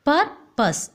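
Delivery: "Purpose" broken into two separate beats; split into syllables. Shown as a demonstration. Teacher showing how to split the word, syllable by syllable. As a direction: pause between the halves of "Purpose". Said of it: "oh, split the word".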